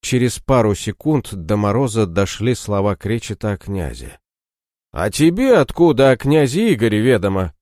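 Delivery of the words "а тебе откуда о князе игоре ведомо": a bit louder, surprised demand; exclaiming. Acted. Мороз вдруг понимает слова про князя, с восклицанием. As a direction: blurt the question out at once. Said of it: "воскликнул он".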